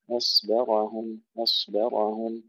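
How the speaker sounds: slow أصبرهم with a thin أ and heavy ص; light hamza, heavy sad. Shown as a demonstration. Teacher drills the word for students. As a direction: alternate thin and heavy letters. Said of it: "الهمزة مرققة والصاد مفخمة".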